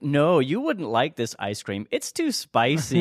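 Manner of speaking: slow, high, sing-song parent fib; slow, teasing parent voice; fibbing parent. Retold or imitated. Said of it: "he's like".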